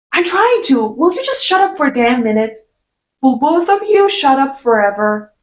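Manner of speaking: exasperated, snapping at them to shut up; retold angry snap. Character snaps at two men.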